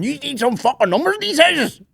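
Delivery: high put-on complaining driver; mock delivery driver. Delivery driver moaning about house numbers, high put-on whine. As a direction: whine it like a lost courier.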